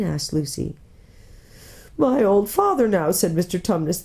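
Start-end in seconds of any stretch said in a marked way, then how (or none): 2.0-3.1 higher, plaintive faun voice; lightly tearful, wistful; mournful faun. Acted. Faun recalling his father, mournful.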